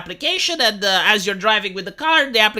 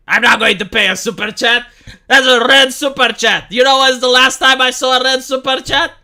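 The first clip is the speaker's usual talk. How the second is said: mock outrage; 3 semitones higher, 6 dB louder than usual. Mock outrage over a red super chat.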